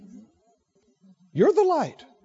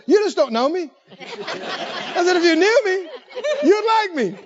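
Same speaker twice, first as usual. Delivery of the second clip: amused comeback; 8 semitones higher than usual. Retold or imitated. Preacher retells his cheeky reply to an angry man, laughing. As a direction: tease him with a grin.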